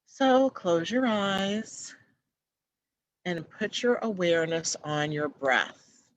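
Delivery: guided meditation. Acted. Guiding live viewers down a garden path, gentle meditation voice. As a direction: ease them into calm, unhurried.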